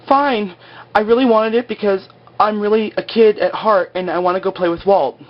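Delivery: high, silly mock Kate voice; mock girly Kate. Vlogger mocking Kate's confession with a high, silly voice. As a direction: squeak it out like a giddy kid.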